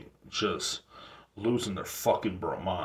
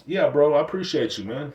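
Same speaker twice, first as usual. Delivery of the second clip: casual bro thanks; 6 semitones higher, 5 dB louder than usual. Retold or imitated. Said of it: "But like".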